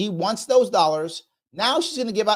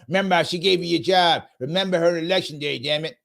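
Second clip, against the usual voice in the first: stereotype boss talk; faster than usual. Retold or imitated. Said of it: "That's how they talk".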